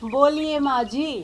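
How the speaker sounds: soft, low, slow submission; meek obedience. Acted. Daughter-in-law awaiting mother-in-law's orders, meek obedience.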